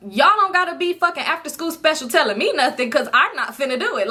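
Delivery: attitude. Retold or imitated. Friend refusing the late-night swim dare, with attitude. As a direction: push back with open attitude. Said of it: "not trying to get too much of an attitude".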